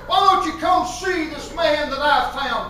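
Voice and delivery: eager, mildly animated urging; excited invitation. Acted. Excited believer urging somebody to come see, eager. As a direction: invite them with a touch of excitement. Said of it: "to get excited enough to tell somebody".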